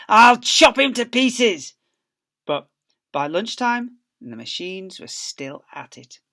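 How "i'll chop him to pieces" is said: slow, loud and high threat; menacing shout. Acted. Bunce shouting threats about the fox. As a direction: drag it out like a threat. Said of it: "shouted Bunce".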